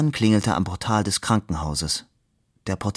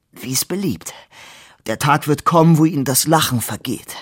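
grim threat, rising louder; wounded man threatening the laughing stranger, grimly; 6 semitones higher, 3 dB louder than usual. A narrator's reading. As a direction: bite the words out through pain. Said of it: "sagte verbissen".

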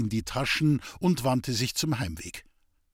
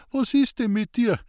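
high, raised concerned call; 10 semitones higher, 4 dB louder than usual. A narrator's reading. Sick man calls after departing friend, raised voice. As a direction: call after him, puzzled. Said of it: "rief Hans Peter".

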